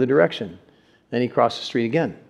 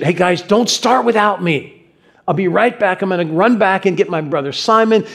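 higher-pitched call to the guys; eager calling out; 4 semitones higher than usual. Acted. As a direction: call to friends with eager urgency. Acts Andrew calling to his friends.

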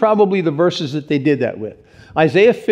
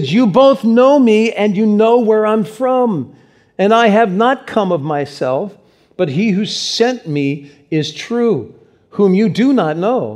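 raised, slow and deliberate proclamation; 4 semitones higher, slower than usual. Acted. Preacher reads Jesus crying out in the crowded temple, raised voice. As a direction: project it out to be heard over a crowd. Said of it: "raising his voice".

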